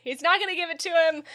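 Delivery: high and quick, laughing. Real, not acted. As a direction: say it while still laughing. Laughing through the line.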